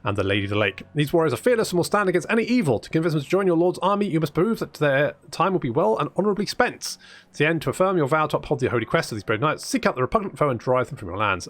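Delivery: quick, lively quest-text reading; story narration. Acted. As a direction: read it out like a chivalric tale.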